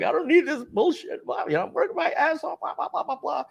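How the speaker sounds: high, strained ranting rant; venting rant. Retold or imitated. Storming out of the dealership, high, tearful rant. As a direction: spill it out, furious and tearful. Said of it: "I'm like".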